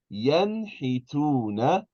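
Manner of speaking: "Yanhituna" slow, with a clear n before the h; full noon. Shown as a demonstration. Teacher models noon before ha, slow "Yanhituna" with a full n. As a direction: stretch out "Yanhituna", sounding the n fully. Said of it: "You're going to pronounce the noon".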